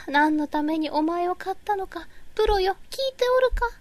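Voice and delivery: hammed-up old-fashioned scolding of the program; mock lament. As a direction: pretend lordly rebuke to the app. Scolding her software theatrically.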